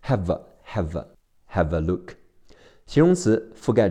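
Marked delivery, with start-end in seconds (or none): 0.0-2.1 "Have a" run together as "hav-uh"; "have a look" joined up as "hava look"; linked sounds. Shown as a demonstration. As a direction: link the v of "Have" straight into "a". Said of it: "在口语和听力中它会连起来".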